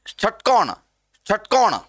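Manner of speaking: षटकोण with tongue between palate and teeth; careful retroflex ष opening षटकोण. Shown as a demonstration. Teacher demonstrates tongue placement, retroflex sh in षटकोण. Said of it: "तालु से थोड़ा सा आगे स्पर्श करेगा".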